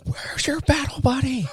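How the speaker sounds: high, slow, strained mock shout; demanding drill sergeant. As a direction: demand it like a sergeant, stretching each word.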